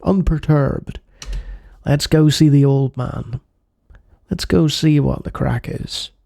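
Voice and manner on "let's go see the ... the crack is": lilting Belfast gangster voice; Northern Irish accent. Acted. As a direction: read it like a Northern Irish hood. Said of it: "I'm using Northern Irish dialect".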